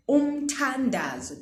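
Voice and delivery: "Umthandazo" with a clear aspirated th. Shown as a demonstration. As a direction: stress the breathy th in "Umthandazo". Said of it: "Do you hear the ta there".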